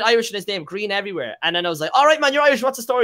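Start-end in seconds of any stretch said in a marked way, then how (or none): 1.9-3.0 mock cheery greeting. Greeting fake Irish streamer, retold.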